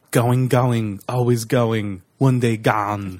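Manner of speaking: slow, drifting Arnold quote that slides into a Walken cadence; Christopher Walken. Retold or imitated. Podcaster repeats the Arnold line, slowly drifting into a Walken voice. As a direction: drag it out, halfway into Walken. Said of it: "you turn into Christopher Walken".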